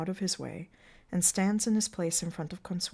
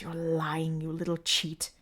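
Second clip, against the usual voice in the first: furious hiss; 10 dB louder than usual. Acted. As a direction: spit the accusations at him. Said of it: "Mancini hisses".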